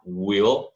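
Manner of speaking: "will" with the L as if swallowing; dark L. Shown as a demonstration. Teacher names the sound and shows it, dark L demo. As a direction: pull the tongue back to end "will". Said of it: "chamado dark L".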